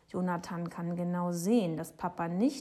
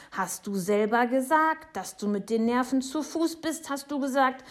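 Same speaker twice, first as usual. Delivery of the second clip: put-on raised, loud child's insistence; shouting; 6 semitones higher, 6 dB louder than usual. A narrator's reading. Boy quoting the neighbour back at her, shouting. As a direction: throw the accusation back loudly. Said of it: "schreit Jonathan".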